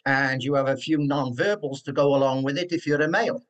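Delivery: broad Cardiff Welsh accent, demonstrated. Shown as a demonstration. Professor demonstrating his childhood Cardiff accent. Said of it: "it goes a bit like this".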